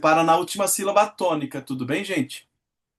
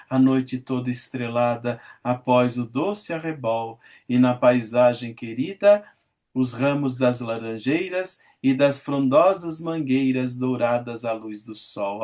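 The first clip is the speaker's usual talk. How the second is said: lower, measured verse reading; poem recitation; 4 semitones lower, slower than usual. Acted. Teacher reading Meus Oito Anos to class, recited lyrically. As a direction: recite it like a school poem, savouring each line.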